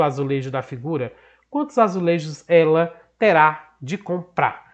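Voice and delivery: deliberate textbook read-out with spaced phrases; measured classroom reading; reading a question aloud. Acted. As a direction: read the problem out carefully to the class.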